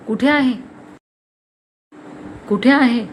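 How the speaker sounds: cold, insistent demand. A narrator's reading. Father asks daughter where the paper is, coldly. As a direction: press for an answer icily. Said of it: "पुन्हा थंड आवाजात म्हणाला".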